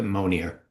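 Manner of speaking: Monier with a sounded final r; anglicized pronunciation. Shown as a demonstration. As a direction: say Monier English-style, as "moh-neer". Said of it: "we've anglicized it".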